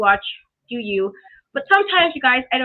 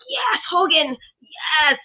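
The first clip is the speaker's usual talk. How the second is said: cheering crowd; 3 semitones higher, much slower than usual. Retold or imitated. Imitating cheering wrestling audience.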